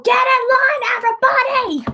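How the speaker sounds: lightly voiced villain shouting orders; mock villain. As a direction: bark it like a hammed-up villain. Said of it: "They always go".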